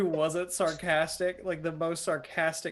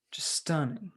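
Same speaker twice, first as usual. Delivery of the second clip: whispered awe; 5 dB quieter, slower than usual. Acted. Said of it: "Mavis will say".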